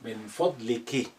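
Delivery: من فضلك with a long final i, fadliki; addressed to a woman. Shown as a demonstration. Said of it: "if you are speaking to a woman".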